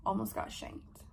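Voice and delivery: low, unvoiced creepy growl; demon voice. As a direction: drop into a possessed rasp.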